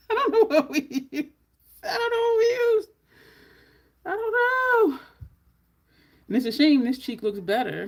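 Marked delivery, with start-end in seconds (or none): 0.1-1.3 laughing through the line, higher and louder. Real, not acted. Laughing to viewers after losing track of the shade. 1.8-5.0 much higher, faster, hammed-up crying whine; fake-sob it for laughs; mock wail. Pretend crying to viewers over the forgotten shade.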